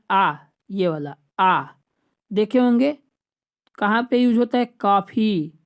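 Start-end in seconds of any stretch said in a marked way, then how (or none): 0.1-1.6 slow आ said as the open English o of coffee; English ॉ sound. Shown as a demonstration. Teacher slowly showing students the borrowed English vowel. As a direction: draw out आ between aa and o. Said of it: "जैसे अंग्रेजी का शब्द है आ".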